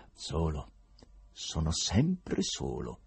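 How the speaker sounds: slow, low bitter reply. A narrator's reading. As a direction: let loneliness sound bitter. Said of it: "rispose amaro il professore".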